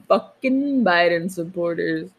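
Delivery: mock drawn-out swear word; imitating pointed emphasis. Teasing partner about how it was said, mimicked emphasis. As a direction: echo the phrase, stretching the expletive. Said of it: "Why do you say it like that?".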